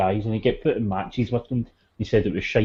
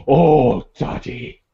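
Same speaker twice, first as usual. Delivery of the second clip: mock scolding. Haystacks scolding Daddy softly.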